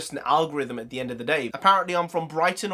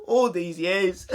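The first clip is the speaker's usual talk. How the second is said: mock dramatic betrayal; slower than usual. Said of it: "mock dramatic repeat of accusation".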